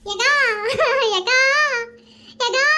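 put-on short tearful calls to an older sister; tearful calling. Hostage phones a friend for help, tearful. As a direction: call out as if crying. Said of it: "ஜி, அழுகாம பேசு".

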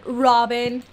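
loud, desperate calls of the name; calling out. Real, not acted. Gamer calling the missing shopkeeper, loud desperate shouting. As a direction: shout for her as if she's across town. Calling a shop owner who is gone.

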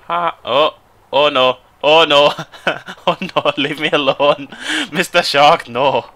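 high, loud pleading with laughs; hammed-up begging, stretched out; playful panic. Player begging a shark to leave, playful panic.

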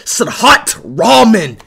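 Sadhat Rahman stretched out slowly, mocking; mocking name drawl. Shown as a demonstration. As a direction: savour the name slowly to mock it. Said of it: "What in the fuck is that name?".

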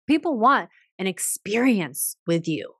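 ordinary talk

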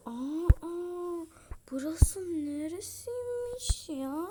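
high, slow, wide-eyed 'Aa, aa' like an impressed visitor; mock amazed gasp. Vlogger imitates friends amazed by her room. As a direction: gush like a stunned friend seeing the place. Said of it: "desinler ya".

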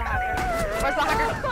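high-pitched calling. Real, not acted. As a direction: call out in a high voice. Repeated search call.

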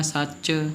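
ਸੱਚ with a heavy doubled ch. Shown as a demonstration. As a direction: lean on the final ch of ਸੱਚ. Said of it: "ਭਾਰਾ ਜਿਹਾ ਬੋਲਣਾ ਹੈ".

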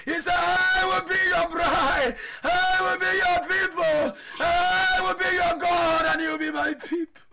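preaching at full force. Acted. Pastor exhorts the congregation in a fervent preaching shout. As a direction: pour it out to the church.

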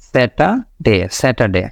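স্যাটারডে with no r sound; স্যাটারডে, r left out; r dropped. Shown as a demonstration. Teacher models স্যাটারডে without the r. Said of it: "এইভাবে কিন্তু আপনার উচ্চারণটা হচ্ছে".

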